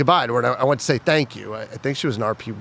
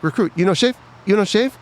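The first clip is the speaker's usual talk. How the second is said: high mock drill-sergeant scream, louder; drill instructor yell; 9 semitones higher, 5 dB louder than usual. Drill instructor screaming at a recruit, high mock yell. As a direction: bark it like a tiny drill instructor. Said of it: "She'd be staring up at me screaming".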